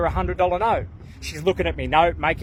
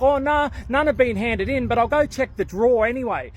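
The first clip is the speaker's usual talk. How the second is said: shop lady; 4 semitones higher than usual. Retold or imitated. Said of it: "She's like".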